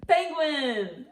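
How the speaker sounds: high, bright cheer of triumph; excited cheer. Real, not acted. Grandma cheering the giraffe answer for Grandma Lou.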